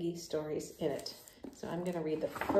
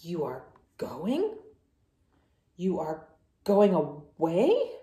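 slow, disbelieving question; can't believe friend is leaving; shocked; 4 semitones lower, slower than usual. Acted. Gerald asks Piggy in disbelief, slow and stunned.

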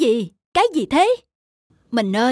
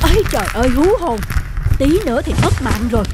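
louder, quick, breathless relief; shaken relief; 3 dB louder, much faster than usual. Acted. Gold seeker rattled after nearly losing his life. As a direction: gasp it out, still rattled.

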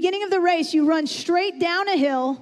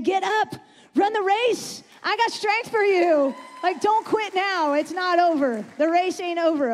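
urging encouragement; 3 semitones higher than usual. Acted. Voices God urging listeners on.

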